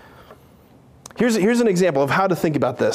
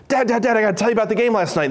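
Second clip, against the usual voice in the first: put-on excited kid; 4 semitones higher, much faster than usual. Son rushing to dad.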